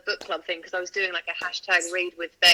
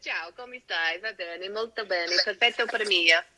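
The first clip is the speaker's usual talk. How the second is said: put-on Italian accent. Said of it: "can I do an Italian accent?".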